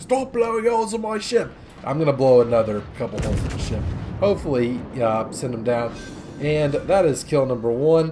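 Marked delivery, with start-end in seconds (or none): 0.0-1.5 high-pitched pirate captain yell. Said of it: "cue Jack Sparrow yelling".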